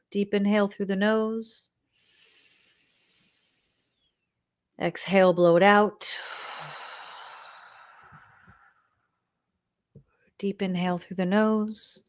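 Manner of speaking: breathing coach cueing inhale and exhale; guided breathing. Shown as a demonstration. Meditation leader counts the group into three releasing breaths, guided breathing. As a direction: cue each breath, leaving long pauses to breathe.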